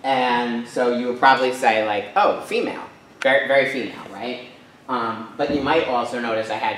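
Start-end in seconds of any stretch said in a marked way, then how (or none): 2.2-4.0 lightly mock-impressed, pitched up; imagined reaction. Speaker guessing the audience's response to prom picture, lightly mock-impressed.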